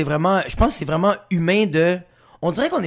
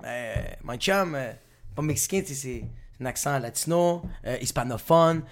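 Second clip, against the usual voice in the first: sheepish correction; 5 semitones lower, 7 dB quieter than usual. Retold or imitated. Retells sheepishly correcting the producer.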